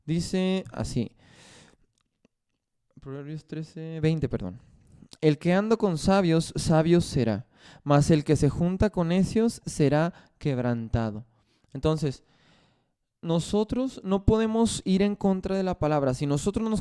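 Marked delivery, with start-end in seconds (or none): 5.2-11.2 louder scripture reading. Acted. Preacher reading Proverbs aloud to the congregation, louder. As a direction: proclaim the verse louder.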